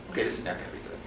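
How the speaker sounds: hushed, breathy whisper of dread; worried inner thought. Retold or imitated. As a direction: whisper it to yourself, bracing for trouble. Inner thought at approaching monkey.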